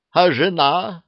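high, loud indignant question; loud, high outrage. A narrator's reading. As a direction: protest the question sharply. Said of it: "возмутился Ара".

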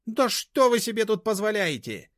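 high, loud, indignant squeal; outraged high-pitched shriek; shrieking outrage. A narrator's reading. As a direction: screech at the intruder. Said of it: "заверещала Машка".

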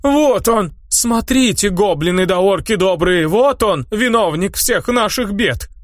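high crone voice crying out an accusation; accusing old crone. Acted. Old witch-woman denouncing the hero to villagers, shrill accusation. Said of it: "вскинула клюку старуха".

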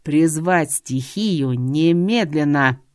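slow, heavy barked command; barked order. Acted. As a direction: bark it so the windows shake. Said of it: "рявкнул так".

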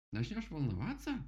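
high, incredulous rabbit; asking back. Acted. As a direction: repeat it in disbelief. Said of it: "переспросил кролик".

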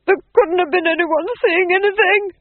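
frantic, high, loud denial; screamed. A narrator's reading. Duke denies there was any witness, screaming. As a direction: shriek it in rising panic. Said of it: "screamed the Duke".

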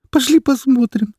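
very high, tearful begging. Acted. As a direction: plead shrilly as a boy. Boy pleads.

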